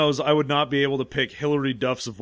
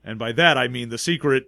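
bland script reading; 4 semitones lower than usual. Retold or imitated. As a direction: read it flat like a bored actor. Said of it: "All of his lines are just delivered with nothing".

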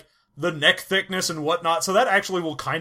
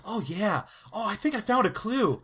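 put-on Hardy Boys sleuth; 5 dB quieter than usual. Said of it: "That was like a Hardy Boys thing".

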